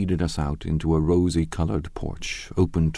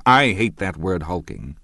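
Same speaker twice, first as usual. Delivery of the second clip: cross; 4 dB louder than usual. Acted. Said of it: "objected Tom crossly".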